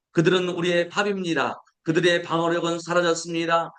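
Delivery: steady, measured Bible reading voice; solemn scripture read. Acted. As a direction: read the verses out to the congregation. Reads scripture quote aloud.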